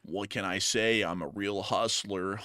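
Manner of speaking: hammed-up gloomy groan; sad-sack fly. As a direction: moan like a defeated fly. Fly voice held.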